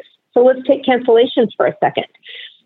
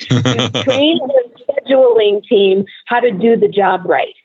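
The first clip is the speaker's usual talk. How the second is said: air quotes; slower than usual. Real, not acted. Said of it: "but I'm doing air quotes".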